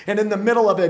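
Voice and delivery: ordinary talk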